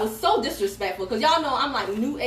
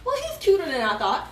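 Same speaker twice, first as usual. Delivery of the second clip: amused admission; 4 semitones higher than usual. Retold or imitated. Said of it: "I remember thinking to myself".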